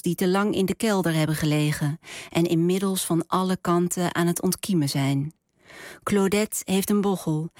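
measured story narration with deliberate pauses; literary reading. A narrator's reading. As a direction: read it out as an author at a book reading, phrase by phrase. Author reads own novel. (bedachtzaam voorgelezen verhaal)

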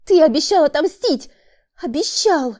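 desperate woman. A narrator's reading. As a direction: hold him to his promise. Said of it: "Выдавила она". (отчаянный упрёк)

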